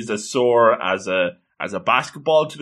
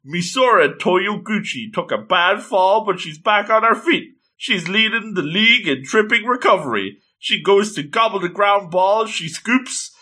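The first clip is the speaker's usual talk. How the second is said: higher-pitched play-by-play announcer; sports commentary; 7 semitones higher than usual. Acted. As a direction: call it like a match commentator. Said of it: "we're having the commentary action".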